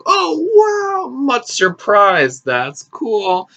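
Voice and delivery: exaggerated, high, drawn-out fake wow; mock amazement. Young passenger humoring old guy about his car, mock amazement. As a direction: gush with obviously fake interest. Feigns interest in unimpressive car.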